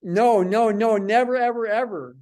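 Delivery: insist, hammering each "no" and "ever"; emphatic no. Shown as a demonstration. Teacher scolding the class about X bars, emphatic and loud.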